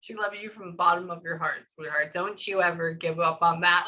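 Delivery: lightly voiced affectionate man; imitating his voice. Medium shows how the late man sounds, earnest imitation. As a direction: pass on his earnest encouragement in his manner. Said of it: "Like, this is how he sounds".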